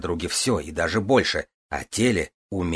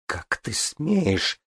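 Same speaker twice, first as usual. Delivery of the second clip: indignant gasp; 7 semitones higher, much slower than usual. A narrator's reading. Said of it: "негодующе задохнулась Игрейна".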